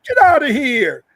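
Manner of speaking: imitating a woman insisting she is Jamaican in patois; lightly mocking patois impression; half-hearted Jamaican accent parody. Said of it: "remember that Asian lady".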